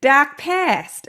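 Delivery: punchy imitation of Kiwi vowels; imitated New Zealand accent. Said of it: "adorable little New Zealand accents saying".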